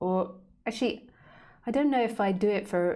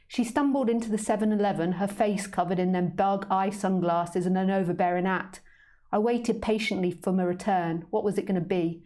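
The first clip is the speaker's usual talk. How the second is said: put-on a cat narrating its tale in a London accent; story narration. A narrator's reading. Author reading her cat's tale aloud, cheeky narration. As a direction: read the cat's story with relish.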